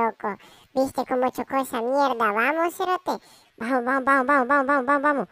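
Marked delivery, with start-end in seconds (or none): 2.3-5.3 louder rapid chant of vamos; chanting vamos to hurry away from the crash; urgent hurry. Acted. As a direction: hurry your friend along. Urging to run after crash.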